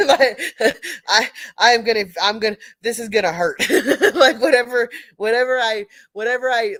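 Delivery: high, loud laughing; laughing hard at her own panic. Real, not acted. Laughing at herself at state meet.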